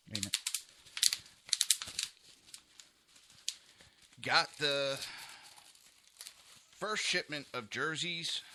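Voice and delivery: breathless, gasping between phrases; out of breath. Real, not acted. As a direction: still catching his breath. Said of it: "Sorry, I'm out of breath".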